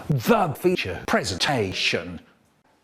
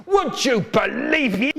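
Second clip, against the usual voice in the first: high shout; 10 semitones higher than usual. Acted. Shouted catchphrase, then "Yes, again.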